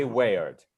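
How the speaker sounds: "Wayard" said as WAY-urd; "Wayard" with a beat on way, then urd; disyllabic weird. Shown as a demonstration. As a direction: model "Wayard" in two syllables.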